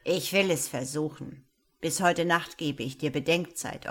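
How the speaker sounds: put-on a gruff old man softened despite himself; touched old wizard. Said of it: "seine Stimme klang fast ein wenig gerührt".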